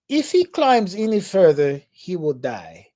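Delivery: lightly imitated Austrian guide, deadpan; matter-of-fact warning. Guide warns the friends calmly, lightly imitated deadpan. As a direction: state the danger flatly, like a foreign guide. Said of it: "he just says, matter of fact".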